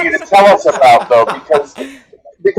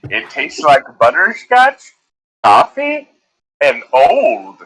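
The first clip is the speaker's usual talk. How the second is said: slow, deliberate sponsor read with drawn-out pauses; milk each phrase like a cheesy candy commercial; mock ad read; 3 semitones lower, slower than usual. Podcast host reads a joke sponsor spot to listeners, mock ad read.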